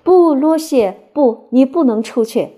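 high, loud mock protest; exaggerated impersonation of an alarmed protest; mimicking the narrator. A narrator's reading. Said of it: "他又学我的声音说".

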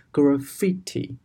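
graffiti with the stress on fi. Shown as a demonstration. Teacher to students, graffiti stressed on fi. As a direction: lean on the fi in graffiti. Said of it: "它是在fi上面的重音".

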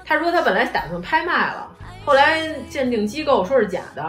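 normal talking voice

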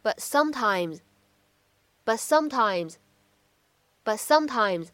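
"but sometimes" with the t of "but" unreleased, slowly; "but sometimes" with the t swallowed; incomplete plosion. Shown as a demonstration. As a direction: hold back the t of "but" before "sometimes". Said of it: "需要读成是".

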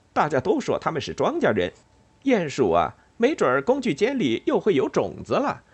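high, gushing little mouse voice; thrilled mouse, voice leaping up; excited fieldmouse. Acted. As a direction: babble the news in eager bursts. Excited fieldmouse telling his news.

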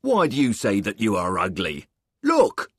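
hint of a soldier; lightly voiced soldier. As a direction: reassure the boy. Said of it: "said a soldier".

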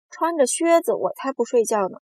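high, loud protest; shouted refusal. A narrator's reading. Centipede refusing to sleep in boots, shouted. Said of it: "蜈蚣叫道".

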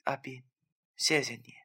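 soft, hushed grateful thanks. A narrator's reading. Ghost thanking the man who is helping her, grateful. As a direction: thank him gently and quietly. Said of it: "便感激地对我说".

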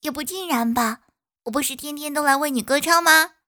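loud, high, cheerful bee; cheerful little bee reassuring. Acted. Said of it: "蜜蜂说".

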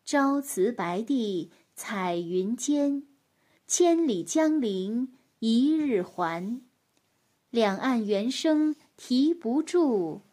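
slow, measured poem recital; poem recitation. Acted. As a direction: recite each line slowly.

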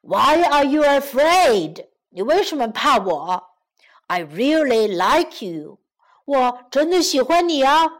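a hint of a storybook lion pleading his case; lovestruck lion. Lion wooing the frightened girl, earnest lion voice.

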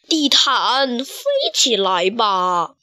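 slow drawn-out order; commanding. Acted. Big Voice standing on the carpet ordering it to fly. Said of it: "命令道".

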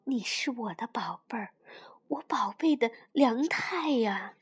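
a mother's hushed loving reassurance; tender whisper. Acted. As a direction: whisper it while hugging. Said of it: "妈妈搂着梁太说".

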